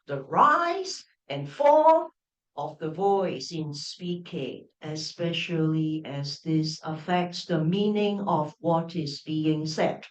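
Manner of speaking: slow reading with no intonation; flat dictionary read. Shown as a demonstration. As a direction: read it flat, without tune. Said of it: "I was reading it really flat".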